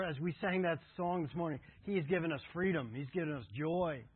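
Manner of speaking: ordinary talk, nothing marked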